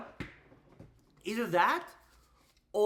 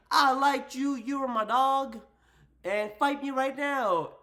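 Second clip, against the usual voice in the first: mock challenge; 8 semitones higher, 4 dB louder than usual. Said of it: "She's like".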